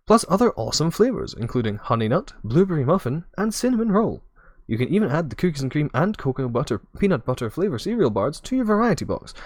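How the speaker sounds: bright salesy ad voice; infomercial voice. Acted. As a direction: close the sale like TV shopping. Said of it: "I'm gonna do my best, like, infomercial voice".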